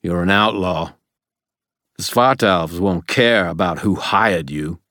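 urgent warning, climbing in pitch and force; desperate. A narrator's reading. Old man warning the boy about Mab, increasingly desperate. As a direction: plead harder as the argument builds. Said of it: "his voice desperate".

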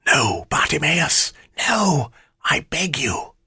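high, slow plea for mercy; pleading. A narrator's reading. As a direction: beg in a high, drawn-out voice. Shadow begs for mercy.

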